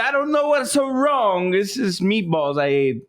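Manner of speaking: high, slow cartoon Italian accent. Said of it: "Look at Luigi on the phone".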